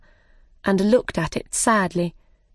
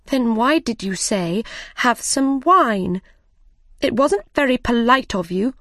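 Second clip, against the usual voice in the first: angrily; 4 semitones higher than usual. Acted. Alice scolding the Hatter over the wine, mildly angry. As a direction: scold him for the empty offer. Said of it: "Alice said angrily".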